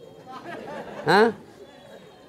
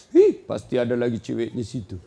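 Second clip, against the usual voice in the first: suspicious wife; 3 semitones lower than usual. Acted.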